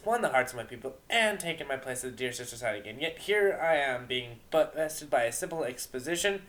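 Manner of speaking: lightly voiced regal pony princess, theatrical; a grand goddess fumbling for her opening line; a touch of royal drama in the voice; moon goddess character. Moon goddess musing aloud.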